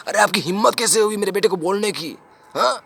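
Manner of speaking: indignant father. Acted. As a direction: demand an answer from the teacher. Father confronts teacher over his son.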